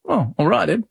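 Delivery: mock British accent, resigned little reply. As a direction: put on a light British accent. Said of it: "What's going British accent".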